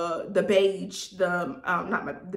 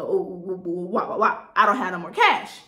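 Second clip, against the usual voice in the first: imitating her wah-wah complaint, louder at the end; mock whining; 5 dB louder than usual. Seller retells buyer's excuse about cash, mock whining. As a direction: whine it back mockingly. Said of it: "Back with the".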